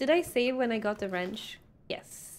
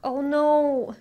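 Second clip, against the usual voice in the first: alarmed cry; 3 semitones higher, 5 dB louder, much slower than usual. Real, not acted. Dying in horror game.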